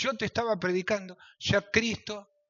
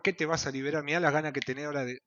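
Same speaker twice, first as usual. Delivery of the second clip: devil's voice; faster than usual. Acted. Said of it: "viene otra voz".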